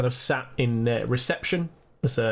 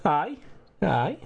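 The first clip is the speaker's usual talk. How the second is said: put-on Scottish accent; 3 semitones higher than usual. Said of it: "he's Scottish".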